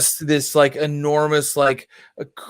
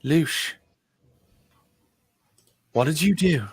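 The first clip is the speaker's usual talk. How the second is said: Clara; 4 dB quieter than usual. Acted. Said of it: "Clara's like".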